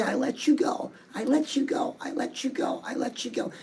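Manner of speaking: hushed, dwindling repetition; releasing mantra. Shown as a demonstration. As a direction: demonstrate a mantra that gradually lets go. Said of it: "Squeeze the doll and say".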